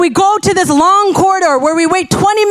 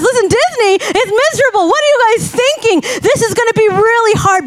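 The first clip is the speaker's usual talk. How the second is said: higher, faster voice of the doubters; mock doubters; 5 semitones higher than usual. Preacher mimics people who warned her about Disney, mocking. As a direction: imitate naysayers warning her off. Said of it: "people told us".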